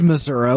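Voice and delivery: Missouri with a final "uh"; Missouri said as "Missour-uh"; regional pronunciation. Shown as a demonstration. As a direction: end Missouri on "uh", not "ee". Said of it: "it's correctly pronounced Missouri".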